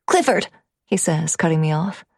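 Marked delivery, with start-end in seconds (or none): 0.1-0.5 put-on child voice. Son cuts mother off.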